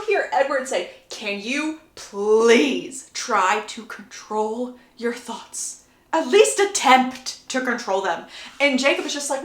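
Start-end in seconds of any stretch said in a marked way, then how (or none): 1.1-8.3 very slow, drawn-out exasperation; exasperated plea. Retold or imitated. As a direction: stretch out PLEASE in strained irritation. Edward exasperated with Jacob's thoughts.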